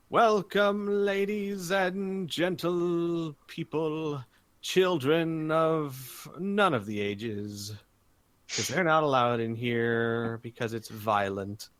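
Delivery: drawn-out, high-pitched announcer call; arena announcer. Acted. Game master as announcer welcoming the crowd, booming showman. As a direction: stretch every word over the arena speakers. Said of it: "in the mega speakers, there is".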